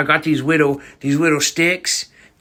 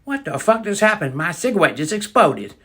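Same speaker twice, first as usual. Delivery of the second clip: dumbfounded; 2 semitones higher than usual. Retold or imitated. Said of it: "all fucking dumbfounded".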